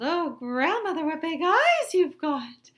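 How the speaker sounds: put-on high, slow amazed little girl; high, slow wide-eyed girl voice; exclaiming girl. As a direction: marvel at it slowly. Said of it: "exclaimed the little girl".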